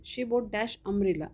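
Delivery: very slow, word by word, as if dictating; dictation pace. Shown as a demonstration. Teacher dictating an example sentence to the class, very slow. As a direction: spell the sentence out slowly for students to copy.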